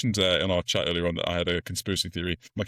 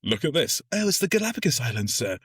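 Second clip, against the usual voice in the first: mock surprise; 8 semitones higher than usual. Officers feigning surprise to captain.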